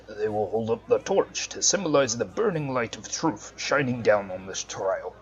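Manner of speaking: solemn judge. Acted. Voicing the NPC judge.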